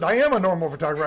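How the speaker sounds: quick retort with "am" punched up high; stress on AM. Retold or imitated. Photographer answers the apologizing guard, stress on "am".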